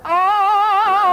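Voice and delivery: high startled oh; mock start; surprised. Real, not acted. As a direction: yelp it.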